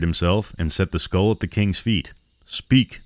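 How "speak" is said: sharp loud command, pitched up. A narrator's reading. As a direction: bark the order at the skull. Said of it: "Kigbo commanded".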